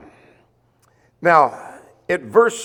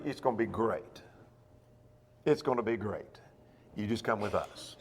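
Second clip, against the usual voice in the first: soft luring; 5 semitones lower, 12 dB quieter than usual. Acted. Tempter luring the city.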